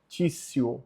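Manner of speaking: "tissio" said TSEE-oh; TI as tsi. Shown as a demonstration. Teacher showing the Latin TI rule, said as tsi. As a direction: open "tissio" on a ts sound. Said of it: "fica T S I mais a vogal".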